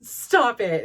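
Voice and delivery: retold excited disbelief. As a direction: imitate a thrilled friend exclaiming. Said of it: "got so excited".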